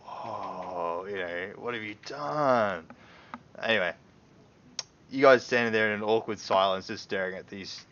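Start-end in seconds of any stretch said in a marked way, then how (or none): 0.0-2.8 slow, loose amazed whoa; easygoing awe at the mess; larrikin whoa. Acted. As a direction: Ander gawking at the player, casual and amazed. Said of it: "he's just sort of like".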